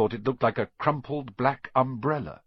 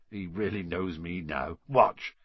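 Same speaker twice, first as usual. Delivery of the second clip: Hagrid's voice climbing into a much higher, louder call to the dragon; doting Hagrid; 5 semitones higher, 6 dB louder than usual. Acted. Hagrid voiced, calling his dragon.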